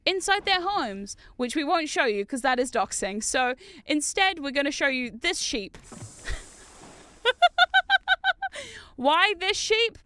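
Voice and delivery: lightly voiced guide showing visitors round; mock tour guide. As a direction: present it like a tour, drawing out key phrases. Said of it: "They're like VTuber tours".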